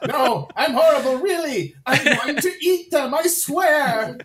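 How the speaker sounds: high, laughing mock insistence; villain protest. Villain swearing he will eat them, high protest. Acting out villain denying kindness.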